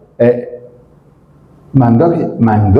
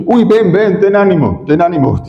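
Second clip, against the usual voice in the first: higher, sugary coaxing; mock the crowd's fake kindness; sudden fake friendliness; 3 semitones higher than usual. Crowd now welcomes the beggar, mock sweet coaxing. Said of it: "ahora como el Señor le había dicho".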